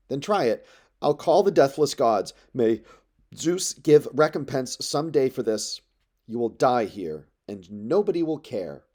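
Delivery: a defiant curse hurled at the crowd; loud threat. Acted. Telemachus curses the suitors before the gods, loud and defiant.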